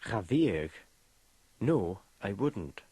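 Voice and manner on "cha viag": "Cha viag" with viag in two syllables. Shown as a demonstration. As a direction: split "viag" into vee-ag after cha. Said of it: "you say viag with two syllables".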